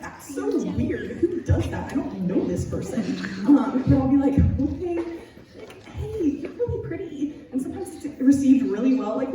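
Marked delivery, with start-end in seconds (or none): 0.0-3.0 amused laughing aside; laughing self-mockery. 4.6-7.3 high, soft, shy compliment to a stranger; tentative, friendly higher voice; sweet compliment. Retold or imitated.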